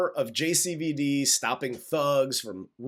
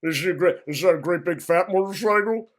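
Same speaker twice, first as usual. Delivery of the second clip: louder hammed-up hick mocking the word; mock dumb redneck; 3 semitones higher, 6 dB louder, faster than usual. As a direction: ham up the baffled local. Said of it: "he's like".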